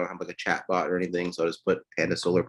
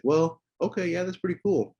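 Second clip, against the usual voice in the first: won-over prospect; 10 semitones higher than usual. Retold or imitated.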